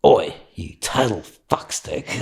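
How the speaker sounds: slow, drawn-out imitated insult; mock really cross. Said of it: "then she got really cross".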